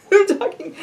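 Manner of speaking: talking through a laugh, high-pitched. Real, not acted. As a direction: laugh at yourself as you speak. Laughing at her own fast talk.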